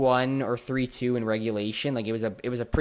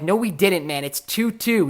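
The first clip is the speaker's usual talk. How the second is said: exasperated correction; 6 semitones higher, 4 dB louder than usual. Retold or imitated. Retold argument over the score.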